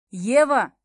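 loud calling shout across a cabin. A narrator's reading. Ares shouting to Eva from the back of the cabin, loud. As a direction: call her name to stop her. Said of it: "крикнул Арес".

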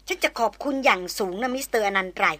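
each word set apart, slow and icy; pointedly slow, polite brush-off; slow, deliberate and formal. Acted. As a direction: spell it out slowly to shut him up. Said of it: "พูดเน้นเสียงแช่มช้า ชัดเจน และเป็นทางการ".

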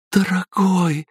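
высоко, радостно, с улыбкой; радостно позвать любимого; счастливый возглас. A narrator's reading. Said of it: "повторила она, счастливо улыбаясь". (Елена радостно зовёт мужа)

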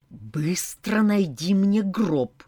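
slow, hissed vampire demand; hissing feral vampire. Acted. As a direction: hiss it slowly, fangs bared. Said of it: "прошипел вампир".

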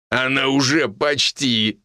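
slow laughing punchline; guffawing. A narrator's reading. Major joking about Tanka, guffawing. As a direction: crack up while saying it. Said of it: "заржал майор".

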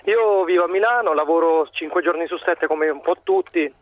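slightly winded while walking; out of breath. Real, not acted. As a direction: talk while walking briskly. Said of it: "scusate se ho il fiatone, ma sto camminando".

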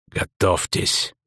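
breathless whispered warning; wounded mercenary gasping a warning to the soldiers. A narrator's reading. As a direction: gasp it out, barely voiced. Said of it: "прохрипел Блайс".

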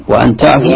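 وأن تعفوا with an "a" on the hamza; fatha on the hamza. Shown as a demonstration. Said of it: "بفتح ال". (انطق وأن تعفوا بفتح همزة وأن)

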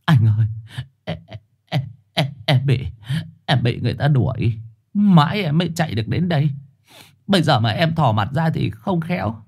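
a hint of a frightened stray stammering; pleading. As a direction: beg in a panic, tripping over words. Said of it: "Trùn vẫn nài nỉ".

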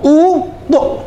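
"أو ضؤ" in two beats, first syllable held; broken into syllables. Shown as a demonstration. Teacher building the imperative for students, syllable by syllable. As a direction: sound out "أو ضؤ" with a gap between syllables.

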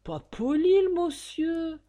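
high, lofty sniff of disdain; disdainful. Acted. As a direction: look down your nose at the rude passenger. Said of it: "avec un beau dédain".

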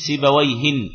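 سيبويهن said with a final nun sound, sibawayhin; سيبويهن pronounced sibawayhin with nunation; with tanween. Shown as a demonstration. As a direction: add the tanween to سيبويهن, ending in -in. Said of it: "بالتنوين".

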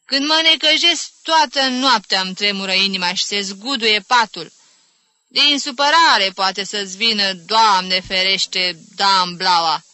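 loud, dramatic bemoaning; lamenting. Acted. Aunt bewailing trembling nights and feared stroke, lamenting. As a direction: wail about your nerves, stretching the dread. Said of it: "se căină Magdalena".

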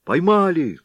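high, loud triumphant cry; excited shout. A narrator's reading. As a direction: yell out the catch in triumph. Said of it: "вскрикнули вошедшие в это время десятские". (радостный громкий выкрик)

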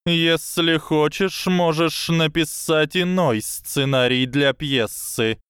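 high, slow lecturing snake voice; slow hypnotic serpent hiss. Acted. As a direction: coil the words around him slowly. Snake continues.

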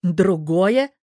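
"Другое?" loud, rising; man echoing her word in anger; angry echo. A narrator's reading. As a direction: snap "Другое?" back angrily. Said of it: "зло повторил ящер".

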